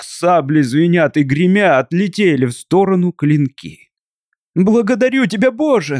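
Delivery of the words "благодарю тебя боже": high, thankful cry to God; wife thanking God as the sabres break, high cry; relieved cry. A narrator's reading. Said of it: "сказала Катерина и вскрикнула снова".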